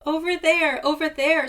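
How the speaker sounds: high, loud bird squawk. A narrator's reading. Seagull pointing Raven to the chest, high loud squawk. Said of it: "squawked Seagull".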